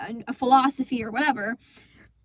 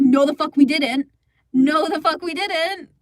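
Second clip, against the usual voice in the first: angry denial; 4 dB louder than usual. Retold or imitated. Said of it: "I was so pissed".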